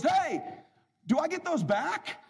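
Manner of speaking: high, slow timid question; meek father-in-law. Retold or imitated. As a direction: ask it sheepishly. Howard asking meekly.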